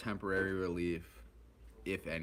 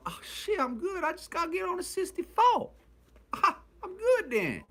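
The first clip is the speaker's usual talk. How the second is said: mock relieved excitement; 7 dB louder than usual. Relieved, learns the right bus.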